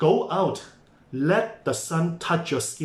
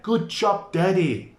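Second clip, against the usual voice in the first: higher, bright self-praise; cheerful praise; 4 semitones higher than usual. Shown as a demonstration. Tired parent praising herself, bright and cheerful. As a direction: cheer yourself on like a proud coach. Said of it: "Give yourself a pat on the back".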